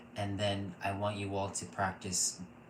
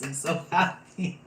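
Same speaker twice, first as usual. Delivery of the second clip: high, loud cry of happiness; overjoyed; 8 semitones higher, 7 dB louder than usual. Real, not acted. Reader delighted by the cards, loud joyful gush.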